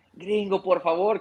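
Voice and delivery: a touch of tearful pleading, retold; mock near-tearful plea. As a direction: mildly imitate someone begging, close to tears. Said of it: "casi llorando".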